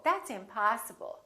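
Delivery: "impossible" with a long "ah" in POS; lingering open vowel in "impossible"; prolonged stressed ah. Shown as a demonstration. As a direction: stretch the middle of "impossible": im-PAH-sible. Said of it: "we prolong the ah in the stressed syllable".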